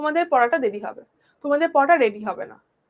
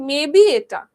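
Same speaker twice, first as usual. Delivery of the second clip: mock unsure student; 7 dB louder, much slower than usual. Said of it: "এখন তোমরা বলছো".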